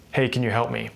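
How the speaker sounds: dull, toneless request; flat monotone. Shown as a demonstration. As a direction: ask like you don't care. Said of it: "It's very monotone and flat".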